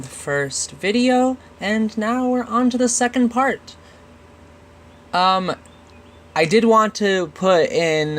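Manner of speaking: blocked nose, nasal tone; nasal congested voice. Real, not acted. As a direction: speak through a stuffy nose. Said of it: "if my voice sounds very nasally".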